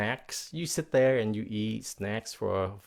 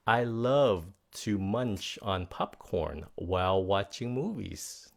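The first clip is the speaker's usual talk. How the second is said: slow sample sentence; slower than usual. Shown as a demonstration.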